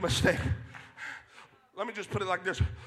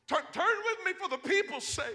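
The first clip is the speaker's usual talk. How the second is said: louder plea; 8 semitones higher, 5 dB quieter than usual. Retold or imitated. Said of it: "He said".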